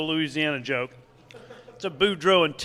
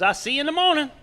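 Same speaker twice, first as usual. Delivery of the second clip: Thibodeau goodbye; 9 semitones higher, faster than usual. Acted. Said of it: "He goes".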